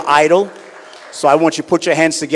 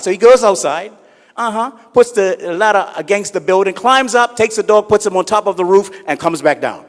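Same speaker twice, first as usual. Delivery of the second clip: ordinary talk, nothing marked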